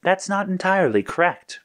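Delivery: high-pitched computer voice; computer correction. A narrator's reading. Computer correcting Red's boast, high and matter-of-fact. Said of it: "Chroma Computer said".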